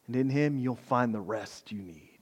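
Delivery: soft, whispered reassurance; whispered promise. Real, not acted. Pastor assuring tired listeners of rest, whispered. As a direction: breathe it out like a secret comfort.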